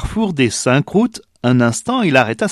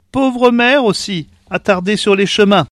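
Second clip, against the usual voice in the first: put-on old woman's pity; 8 semitones higher, 3 dB louder than usual. A narrator's reading. Old woman pities the mother.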